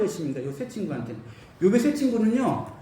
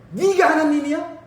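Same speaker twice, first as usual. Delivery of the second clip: God's rebuke; 5 semitones higher than usual. Retold or imitated. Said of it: "이렇게만 한 말씀 하십니다".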